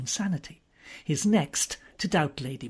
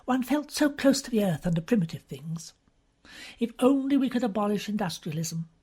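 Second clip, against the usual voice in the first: lightly voiced gushing young woman, a bit higher; Miss Tarrant's voice; 5 semitones higher than usual. Young woman gushing to Wimsey over dinner, lightly voiced. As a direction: chatter on in an earnest, breathless society tone.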